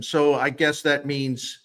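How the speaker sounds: dry sarcastic tone; deadpan sarcasm. Real, not acted. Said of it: "pardon my sarcasm".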